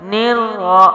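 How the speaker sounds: نیر را with ن merged into a heavy doubled ر; tajweed join. Shown as a demonstration. Teacher showing the join, firm recitation. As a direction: merge ن into ر firmly. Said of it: "سختی اور جماؤ کے ساتھ".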